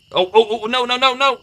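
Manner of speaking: high, loud alarmed "no, no, no"; real panic as a mistake happens; shrieking in real dismay; panicked cry. Real, not acted. Streamer accidentally deletes message.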